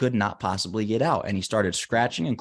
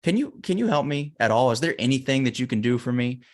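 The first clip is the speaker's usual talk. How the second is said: higher-pitched mock shout to a passer-by; retold plea, raised but not truly shouted; calling up for help; 5 semitones higher than usual. Man stuck in a hole to a doctor, pleading call. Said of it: "the guy shouts up".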